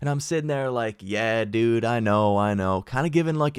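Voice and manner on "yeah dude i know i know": put-on slow, sassy, arrogant, dismissive teenage tone. Retelling own reply to a scolding cop: retelling own teenage attitude. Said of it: "a little bit of attitude".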